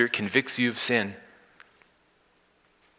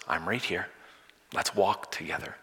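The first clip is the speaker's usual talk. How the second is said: softer, lower comforting voice; gentle reassurance; 4 semitones lower, 8 dB quieter than usual. Acted. Jesus answering the one who fell, quiet reassurance. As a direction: answer softly, drop the pitch to comfort.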